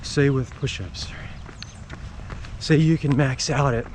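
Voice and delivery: talking while running; a little out of breath from running; while jogging. Real, not acted. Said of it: "Like right now, if I didn't have a habit of running, I would not be out here in the rain".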